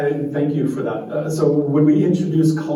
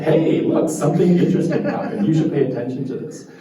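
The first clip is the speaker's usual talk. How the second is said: mock alert; 3 dB louder than usual. Brain voiced alerting.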